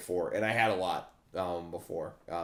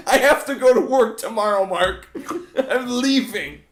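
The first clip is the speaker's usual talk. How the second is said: imitating friend; 10 semitones higher, 7 dB louder than usual. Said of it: "that did happen to a friend".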